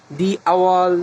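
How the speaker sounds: দি আওয়াল, with দি said as "dee"; "the" as দি before vowel. Shown as a demonstration. Teacher giving a vowel example, দি আওয়াল with "dee". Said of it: "তখন আমরা দি বলবো".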